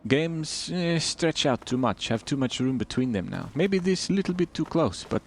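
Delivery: put-on a light, generic Eastern European accent with broken English; mild put-on Eastern European accent with clipped grammar; bad Eastern European accent. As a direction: keep up a hammed-up Eastern European voice. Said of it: "Oh, bad accent time".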